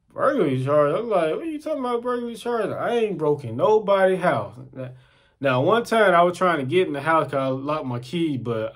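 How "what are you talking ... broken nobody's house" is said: tag. Retold or imitated. Acts protest against charges.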